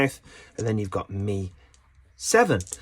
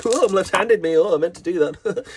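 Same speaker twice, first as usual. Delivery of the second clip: impressionist self; 7 semitones higher, 4 dB louder than usual. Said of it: "He likes to be like".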